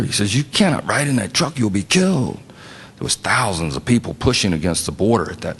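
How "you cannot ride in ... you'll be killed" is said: high-pitched imitated Spanish accent. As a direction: warn like a Dominican doctor, Spanish accent. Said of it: "says it in his very Spanish accent".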